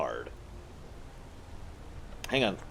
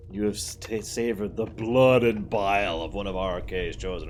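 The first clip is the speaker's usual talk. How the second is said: imitating Namira; 4 dB louder than usual. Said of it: "the way she says that line".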